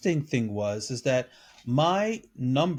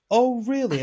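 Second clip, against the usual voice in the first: higher, mocking disbelief; lightly hammed incredulous reply; sarcastic mock surprise; 7 semitones higher, 3 dB louder than usual. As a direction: scoff at what she said. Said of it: "and I said".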